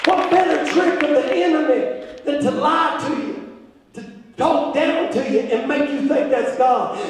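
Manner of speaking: strong, projected pulpit voice; insistent sermon delivery with punched phrases; emphatic preaching. Acted. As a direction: drive each point home to the congregation. Preaches to congregation.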